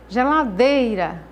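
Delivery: "geladeira" slowed, with the "dei" pushed out; slow teacher demo of "geladeira", strong on "dei"; stress on dei. Shown as a demonstration. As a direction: stretch and punch "dei" in "geladeira". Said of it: "o dei é a sílaba tônica".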